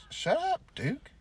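telling off the dog. Retold or imitated. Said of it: "I'm like".

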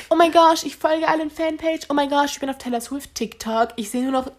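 high, gushing obsessed fan; giddy fangirl. Retold or imitated. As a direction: rave breathlessly about your idol. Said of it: "Hör mir fertig zu".

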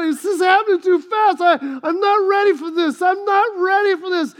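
husband pleads with the doctor; panicked repeat. Retold or imitated. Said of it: "This is what I said".

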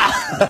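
brief high burst of laughter; short laugh. Real, not acted. Teller amused by his howling assistant act, short laugh. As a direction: laugh briefly at your own imitation. Teller reacts to own imitation.

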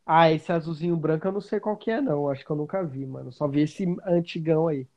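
breaking up on a weak internet call; choppy connection. Real, not acted. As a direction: voice cutting out over a bad line. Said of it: "sua voz tá cortando".

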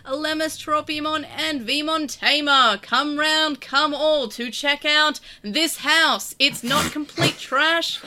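auctioneer voice. Pretend. Host plugs donations in a mock auctioneer manner. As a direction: sell it like a mild carnival barker. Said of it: "I don't think I can ever stop talking like this".

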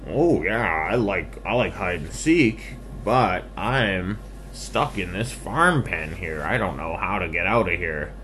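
lightly voiced storybook pig; a hint of a piggy voice, explaining the predicament; eager pig. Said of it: "the pig went".

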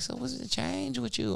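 put-on high, slow girly voice; imitating her. Caller asking Mike what changed, high imitation. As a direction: ask it sweetly and slowly. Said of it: "She was like".

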